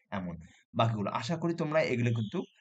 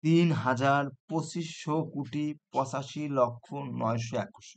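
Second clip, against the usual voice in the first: teacher slowly reading out the full number to students; 2 semitones higher, slower than usual. Shown as a demonstration. Teacher reading the full number aloud slowly to students. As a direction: read the whole number slowly in one go. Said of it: "এই, এইটা দেখো".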